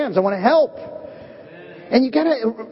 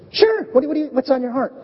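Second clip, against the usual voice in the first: eager Peter; 4 semitones higher, faster than usual. Retold or imitated. Peter eagerly answers Jesus.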